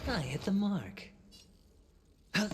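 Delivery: high, loud combat cry; battle shout. Acted. Fighter calling out a strike mid-battle, loud shout. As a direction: yell it out as the hit lands.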